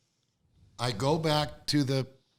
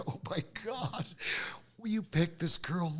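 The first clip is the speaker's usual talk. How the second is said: imitated sobbing; 3 semitones higher than usual. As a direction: retell a tearful cry to God, pitched up. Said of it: "I started sobbing".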